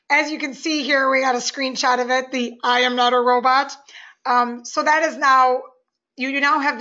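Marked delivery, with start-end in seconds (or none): 2.6-3.7 stiff robot voice, evenly spaced words. Pretend. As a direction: read it like a robot. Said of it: "always goes into robot language mode".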